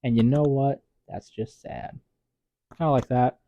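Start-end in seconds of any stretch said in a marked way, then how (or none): 0.0-2.0 mock dismissive gloss. Shown as a demonstration. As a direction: let it drop away dismissively. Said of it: "This is like".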